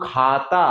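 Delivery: "খাতা" slowly, both vowels held long; drawn-out open syllables. Shown as a demonstration. Teacher showing open syllables can continue, "খাতা" drawn out. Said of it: "দুটো দলকেই continue করা যায়".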